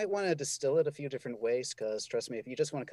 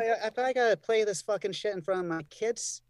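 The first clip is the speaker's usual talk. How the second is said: mock angry scolding; 6 semitones higher, 3 dB louder than usual. Mock scolding continues, laughing.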